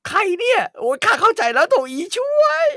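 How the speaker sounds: high, loud shocked outburst; old cook's shrill realization; shocked exclaim. Acted. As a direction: cry out as the truth dawns.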